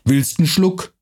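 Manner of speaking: rough dialect voice, lightly done; gruff Franconian watchman. Acted. Night watchman threatening the stranger, gruff dialect. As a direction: bark it like a mercenary guard.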